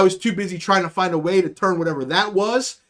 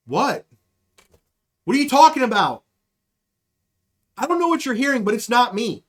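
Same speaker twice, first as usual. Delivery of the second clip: deadpan innocent; 3 semitones higher than usual. Retold or imitated. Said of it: "with a straight fucking face".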